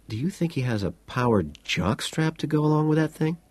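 excited. A narrator's reading. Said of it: "Carruthers gets excited".

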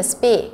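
"speak" with a long, held ee; long ee vowel. Shown as a demonstration. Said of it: "y dài".

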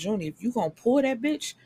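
hurried rising call to the character; fired-up advice. Real, not acted. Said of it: "this is where I get mad".

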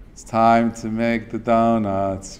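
slow, weary imitation of an ad; uninspired monotone. Teacher quoting an old donut commercial, slow monotone. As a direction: drone it slowly, without inspiration. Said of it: "And it's, like, a monotone".

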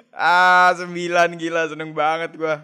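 loud, high joyful shout; excited shout. Real, not acted. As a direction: yell with delight. Another winning nine. (teriakan gembira)

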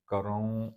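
ਕਰਉ with the final vowel through the nose; nasalised ending. Shown as a demonstration. Teacher showing first-person verb, ਕਰਉ ending nasal. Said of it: "ਨਾਸਕੀ ਉਚਾਰਨ ਕਰਾਂਗੇ".

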